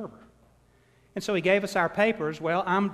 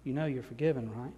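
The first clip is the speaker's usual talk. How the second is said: soft, lower reassuring judge; gentle judge; 3 semitones lower, 5 dB quieter than usual. Retold or imitated. Judge with an arm round the boy, softly reassuring. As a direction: reassure him kindly. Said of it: "He said".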